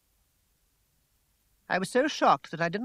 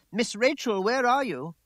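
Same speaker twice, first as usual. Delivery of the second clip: higher, louder calling out; shouting from downstairs; 8 semitones higher, 5 dB louder than usual. A narrator's reading. Servant calling for Rachel from downstairs, loud shout. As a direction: call up the stairs to find her. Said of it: "Samuel's voice shouted from downstairs".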